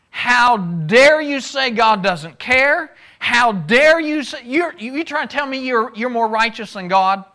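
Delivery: a preacher playing an outraged Zophar; indignant outrage. Zophar rebukes Job for doubting God, outraged. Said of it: "Zophar hits the roof".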